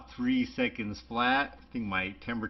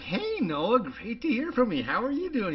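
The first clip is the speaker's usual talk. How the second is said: imitating himself; 12 semitones higher, 5 dB louder than usual. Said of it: "I'm like".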